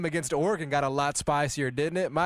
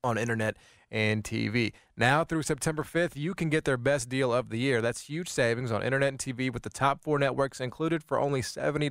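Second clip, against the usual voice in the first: radio ad read. Acted. Host announcing a yearly deal to listeners, lively ad read. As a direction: sell the deal with punched key words.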